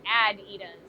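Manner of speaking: "Adidas" with the first A stressed; stress on first syllable. Shown as a demonstration. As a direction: say ADidas, opening on a short A. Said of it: "probably a correct pronunciation".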